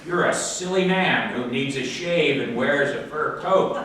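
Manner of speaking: a touch of angry boss; mad foreman. Acted. Foreman threatening the bear with the manager, mildly angry. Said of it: "He was very mad".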